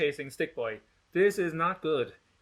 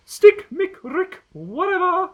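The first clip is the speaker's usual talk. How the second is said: high, loud dismissive brush-off; 10 dB louder, slower than usual. A narrator's reading. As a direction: wave the name away with scorn. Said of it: "says Gretchen".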